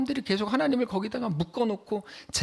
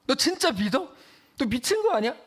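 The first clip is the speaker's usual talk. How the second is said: mocking skeptic; 7 semitones higher than usual. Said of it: "이렇게 말하는 거죠".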